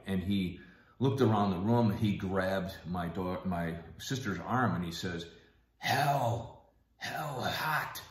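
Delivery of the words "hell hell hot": higher, halting imitation of frightened words; terrified father. Dying father grabs his daughter's arm, imitated as terrified. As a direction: imitate a scared, struggling speaker. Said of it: "he just looked terrified".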